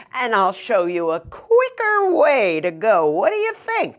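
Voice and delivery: a lightly voiced sly wolf, sweet-talking; hint of a scheming wolf's voice. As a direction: coax her like a smooth-talking wolf. Wolf voiced in told story.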